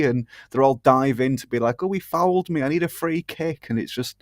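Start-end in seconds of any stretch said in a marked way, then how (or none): 1.8-3.7 higher, whining mock complaint; whiny diver. Mocking diving footballers with a higher whine. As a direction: whine like a player begging the ref.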